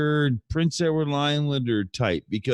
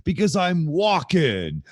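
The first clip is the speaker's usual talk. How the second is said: Christopher Walken; 3 semitones higher, 3 dB louder, slower than usual. Retold or imitated. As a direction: announce the name grandly, stretching it out. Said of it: "Saturday Night Live episode".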